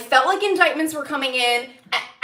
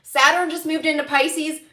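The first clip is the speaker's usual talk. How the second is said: ordinary talk, nothing marked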